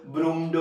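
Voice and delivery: ब्रूम्ड as "broom-duh"; wrong -ed sound. Shown as a demonstration. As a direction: tack a "duh" onto ब्रूम्ड. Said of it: "very bad".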